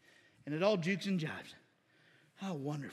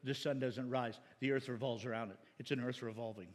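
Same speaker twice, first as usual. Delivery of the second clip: mock atheist; 8 semitones lower than usual. Preacher imitating atheists who correct dumb Christians, mocking lecture. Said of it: "I love when atheists say that".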